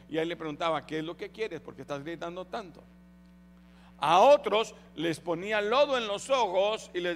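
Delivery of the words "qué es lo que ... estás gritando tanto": softer, gentle asking; soft gentle question. Acted. Jesus gently asking the blind man, softly. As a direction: ask quietly and kindly.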